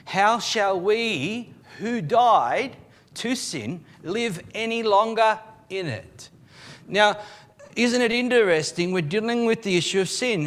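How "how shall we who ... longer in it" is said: slow, died drawn out and leaned on; slow read with died weighted; stress on died. Shown as a demonstration. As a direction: lean hard on died, slowly. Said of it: "this is past tense".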